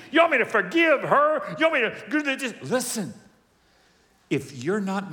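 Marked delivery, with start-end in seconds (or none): 0.1-3.1 high, loud disbelieving question; indignant, hammed-up objection; mock incredulous protest. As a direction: push back as if outraged by the demand. Acts a reluctant, incredulous forgiver.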